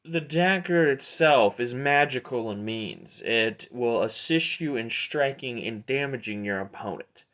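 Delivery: a hint of a showy salesman; explaining merchant Aldor. Aldor explains the dagger to a buyer, lightly voiced merchant. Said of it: "he goes".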